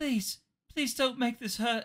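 put-on very high, tiny young child's voice. Narrating a scene, the speaker voices a young child: young child voice. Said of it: "you hear the voice of a young child".

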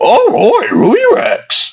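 very high, slow, stretched-out cartoon dog voice. Asked whether they can do character voices, trying a Scooby-Doo voice. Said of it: "Scooby-Doo, he'll be like".

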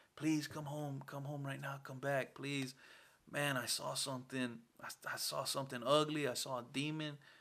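put-on choked-up cracking voice. Retelling begging Dad to come home after seeing something, voice cracking near tears. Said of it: "my voice started cracking like I wanted to cry".

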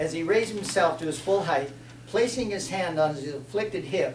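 ordinary delivery, nothing marked

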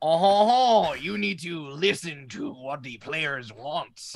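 loud put-on French accent, cartoonish. Giving Brandon notes on being a DM, in a French lobster accent. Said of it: "do it in a French lobster accent".

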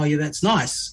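ordinary delivery

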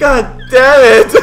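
booming, very loud, overexcited outburst. Playing a game alongside someone and failing a jump, excited outburst. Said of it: "I get so excited".

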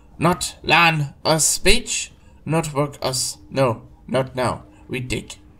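slow, measured, deliberate, careful alien creature voice. Voicing a creature that finally speaks to the players, speaking slowly and carefully. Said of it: "it speaks slowly and carefully".

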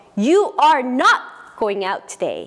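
angry, very slow, loud, full-form emphasis on every word.

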